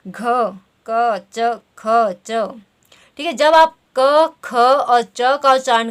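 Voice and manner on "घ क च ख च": घ, क, च, ख, च said one by one to feel the voicing; sounding out letters. Shown as a demonstration. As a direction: test each letter घ, क, च, ख, च aloud for throat vibration. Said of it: "उच्चारण करके देख सकते हैं कि किस ध्वनि में कंपन".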